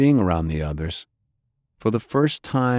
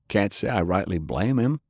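thoughtful. Acted. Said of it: "Lance said thoughtfully".

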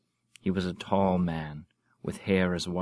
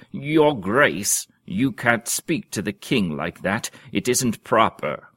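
higher, louder scandalised rebuke; shocked reprimand; 3 semitones higher, 7 dB louder than usual. Acted. Duke scolding another duke for insulting the king, shocked. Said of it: "spoke up in shocked reprimand".

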